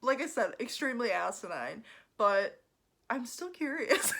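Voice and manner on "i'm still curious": louder, higher shout; shouted insistence. Real, not acted. Vlogger shouting about baseball bats, loud and higher. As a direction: insist loudly, half-joking.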